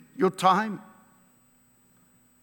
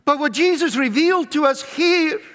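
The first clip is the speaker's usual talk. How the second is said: raised preaching voice, driving the point; preaching shout; 2 semitones higher, faster than usual. Real, not acted. Preacher calling out to his congregation, raised voice. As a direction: call it out to the congregation.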